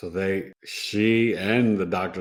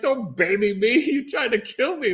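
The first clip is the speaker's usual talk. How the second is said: mock angry retort; 13 semitones higher than usual. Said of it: "I'm like".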